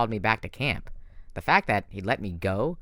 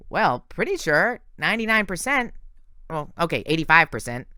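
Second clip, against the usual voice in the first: nervous satyr; 7 semitones higher than usual. A narrator's reading. Grover admitting doubt to his friends, high and nervous. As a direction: back down bit by bit like an anxious goat-boy.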